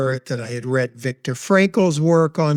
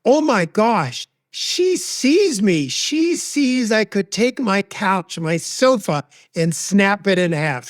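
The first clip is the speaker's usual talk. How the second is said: higher, slowed awe at being understood; amazed realization; 4 semitones higher than usual. Retold or imitated. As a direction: let the relief of being seen lift the voice. Realizing friend truly sees her.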